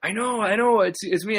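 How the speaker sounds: lightly voiced celebrity owning it; Jericho's reply. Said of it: "he's like".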